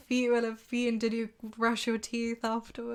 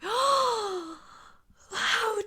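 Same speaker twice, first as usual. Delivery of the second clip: much higher, slow, prim offended lady; shocked Charlotte; 10 semitones higher, much slower than usual. Retold or imitated. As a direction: play a scandalised prude clutching her pearls. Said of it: "obviously Charlotte, being Charlotte, is like".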